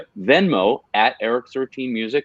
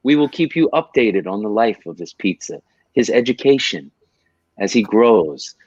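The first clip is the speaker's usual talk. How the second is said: charity ad pitch. Acted. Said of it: "make a commercial for you".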